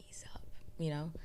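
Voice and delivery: breathy half-voiced whisper, quick; whispered aside. Real, not acted. Host muttering aside to listeners, whispered. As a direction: slip it in as a fast whisper.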